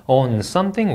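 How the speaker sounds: 'On something' slowly, lifting at the end; rising intonation. Shown as a demonstration. Teacher modelling an on-phrase, rising tune. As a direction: leave 'something' hanging upward. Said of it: "올려 읽고 내려 읽습니다".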